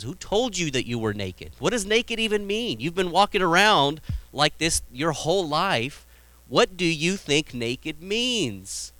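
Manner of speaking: a hint of a baffled father asking; incredulous God.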